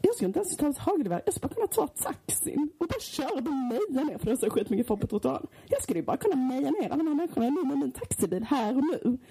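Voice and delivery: retelling how the taxi driver ranted, mock yelling. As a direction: imitate a manic cab driver ranting at his passenger. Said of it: "så skriker han så här".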